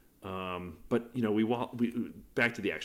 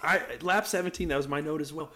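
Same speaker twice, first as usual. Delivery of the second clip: excited; 6 semitones higher, 7 dB louder than usual. Real, not acted. Excited agreement, recalling confusion.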